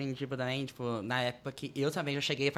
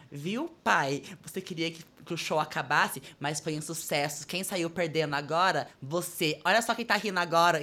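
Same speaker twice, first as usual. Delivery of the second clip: retold taunt; slower than usual. Taunting father in retold story.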